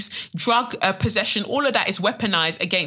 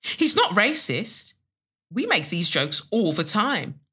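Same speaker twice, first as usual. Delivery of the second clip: dismissive defence; 3 semitones higher, slower than usual. Acted. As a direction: stretch it out as a friend excusing him. Voices friend defending him in poem.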